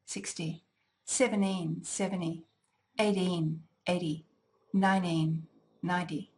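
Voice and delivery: relaxed native pronunciation of the pairs; casual everyday way; normal everyday speech. Shown as a demonstration. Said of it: "as I would say them in normal everyday speech".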